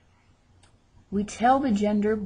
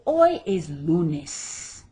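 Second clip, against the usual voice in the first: "hoy es lunes" said at half speed, leaning on "hoy"; slow model sentence; 3 semitones lower, much slower than usual. Shown as a demonstration. Teacher modelling a sentence for students to practise, slowly. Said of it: "let's say".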